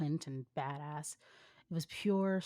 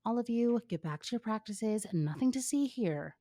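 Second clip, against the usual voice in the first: commanding order; 5 semitones higher than usual. Acted. Best friend ordering crowd away.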